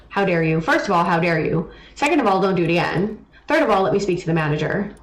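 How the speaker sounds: indignant Karen voice, lightly done; entitled customer impression. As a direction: play the demanding customer. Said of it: "I gained the Karen mode".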